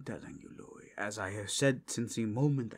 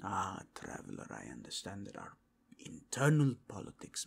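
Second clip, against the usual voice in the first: a lightly voiced noble, hushed and partly whispered; hushed courtly noble; 2 semitones lower, 3 dB quieter than usual. Noble warning the traveler of danger, hushed and half whispered. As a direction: warn the guest quietly, almost confiding. NPC warns the traveler softly.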